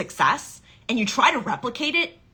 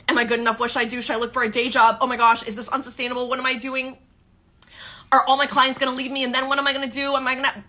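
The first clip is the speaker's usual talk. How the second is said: higher, faster panicky questions tumbling out; anxious spiral; 5 semitones higher, much faster than usual. Retold or imitated. Coach voicing a client's panic over an income dip, higher and rushed. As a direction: play the client spiralling into worry. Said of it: "spiral, okay?".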